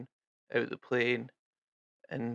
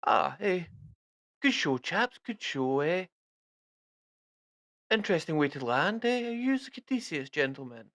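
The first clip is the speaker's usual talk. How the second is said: posh British army officer voice, raised; hearty upper-class British officer; jolly British army officer greeting; 5 semitones higher than usual. Acted. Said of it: "one walks forward and he's like".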